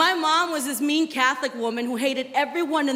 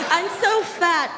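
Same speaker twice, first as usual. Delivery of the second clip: slow, whiny I'm so fat; mock whiny friend; 2 semitones higher, slower than usual. Friend fishing for compliments, slow and whiny. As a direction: drag it out fishing for praise.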